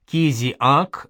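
"Кизиак" drawn out as ки-зи-ак; syllable by syllable. A narrator's reading. Scholar explains the word's roots, saying "Кизиак" slowly in separate syllables.

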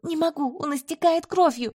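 high, strained shout; hoarse desperate cry. A narrator's reading. Healer cries to the commander that the lieutenant is bleeding, high and desperate. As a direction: cry it out in despair. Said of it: "хрипло прокричала я".

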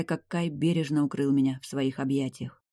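usual speaking voice

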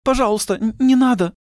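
high frightened woman stammering; beg, stumbling on the words; stammering plea. A narrator's reading. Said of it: "заикаясь, произнесла худая". (испуганно, заикаясь, высоким голосом)

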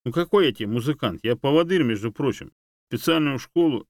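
indignant. A narrator's reading. Dog protesting the monkey's nickname, indignant. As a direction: bristle with outrage. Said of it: "возмутился".

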